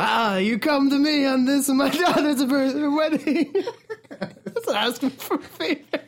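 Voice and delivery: high, laughing mock Marlon Brando; hammed-up Godfather, breaking into laughter; Godfather impression. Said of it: "an actual Marlon Brando impression".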